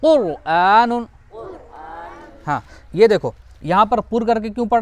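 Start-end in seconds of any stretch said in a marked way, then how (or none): 0.0-1.1 कुरआनुन slow, with a heavy R; correct thick R. Shown as a demonstration. Teacher repeating it for pupils, slow thick R. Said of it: "ये पढ़ना सही है".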